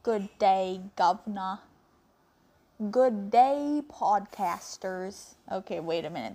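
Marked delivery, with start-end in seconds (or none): 0.0-1.6 amateur Aussie greeting; attempted Australian accent. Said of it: "Did I sound Australian enough?". 2.9-5.3 put-on Aussie accent slipping into Texan; too-Texan Australian attempt. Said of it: "That sounded too Texan".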